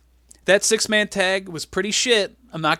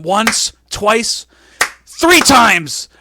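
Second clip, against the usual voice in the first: "once", "twice", "three times" counted out, each louder, rising to a shout; pin count; 5 semitones higher, 8 dB louder, much slower than usual. Acted. Boss counts spanks like a referee, "three times" shouted. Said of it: "he's doing, like, the pin count".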